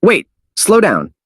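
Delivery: high, slow urgent plea; high slow exclamation; exclaiming. Acted. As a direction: beg them to wait. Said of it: "so he exclaimed".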